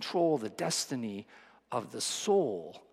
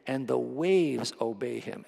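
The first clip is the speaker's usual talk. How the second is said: slow awed fear; 3 dB louder, slower than usual. Retold or imitated. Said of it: "asked each other".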